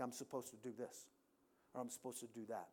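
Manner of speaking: low, softly voiced inner thought; quiet inner prompting. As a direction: say it softly, as if to yourself. Voicing an inner impression from God.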